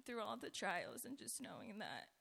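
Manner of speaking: hoarse, scratchy speaking voice; talking through a raspy throat. Real, not acted. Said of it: "Excuse my raspy voice".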